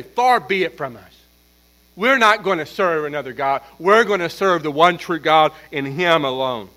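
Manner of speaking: firm, declarative vow of the people; emphatic response. Acted. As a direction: answer with measured emphasis, as a pledge. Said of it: "So the people respond emphatically".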